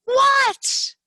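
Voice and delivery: high, loud shouted answer; shouted what. Acted. Froggy answering his mother, high shouted what. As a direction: yell it back like a kid.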